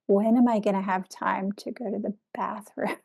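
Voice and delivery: softly voiced inner worry; quiet mock-worried aside to yourself; private thought. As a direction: say it under your breath, as if only thinking it. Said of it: "And in my mind, I was like".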